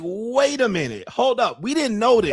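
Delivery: like fans who just learned the truth; shocked disbelief. Retold or imitated. Fans reacting to the shocking reveal, shocked rising voice. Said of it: "They're like".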